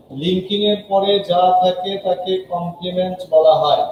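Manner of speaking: a teacher repeating a rule slowly; slow for memorizing. Shown as a demonstration. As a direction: spell it out slowly so the class can memorize it. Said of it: "একটা কথা মুখস্থ করে ফেলে".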